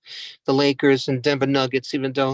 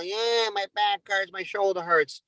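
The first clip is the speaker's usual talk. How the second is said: whiny client; 4 semitones higher, 4 dB quieter, slower than usual. Retold or imitated. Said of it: "They complain one after another".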